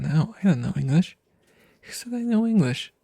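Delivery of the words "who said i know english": high, mock-offended squeak; mock indignant. Streamer joking to chat about her English, high mock indignation. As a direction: play-act outrage at being doubted.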